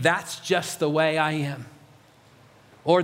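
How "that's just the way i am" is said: lightly resigned, slower and lower; mild shrug of self-acceptance; resigned inner voice. Acted. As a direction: give in with a slow, lowered voice. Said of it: "Do you catch that voice?".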